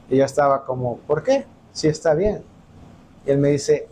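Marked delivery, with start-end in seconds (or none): 1.1-2.4 baffled, why would it be wrong; surprised protest. Retold or imitated. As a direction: pitch jumps up on por qué, then drops back. Young David protests pastor's rejection. (sorpresa y protesta)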